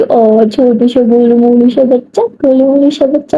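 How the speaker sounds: slow, drawn-out mock cooing; teasing baby talk. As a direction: tease with babyish lisped endearments. Teasing friend with baby talk again.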